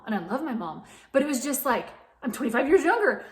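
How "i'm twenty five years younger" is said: incredulous laugh, higher and louder. Real, not acted. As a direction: laugh it off in disbelief. Laughing at herself, annoyed.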